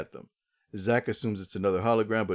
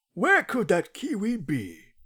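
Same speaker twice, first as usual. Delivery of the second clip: very high, sing-song, swooping put-on voice; 11 semitones higher than usual. Retelling a scene, saying Waldo's line in Waldo voice. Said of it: "I'm going to say it in his voice".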